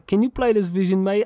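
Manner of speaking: put-on a light Australian accent, mate and all. Drummer imagines the Australian musician asking him to play, in a lightly done Australian accent. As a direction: toss it off in a casual Australian accent, barely put on. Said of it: "I can do a fucking Australian accent".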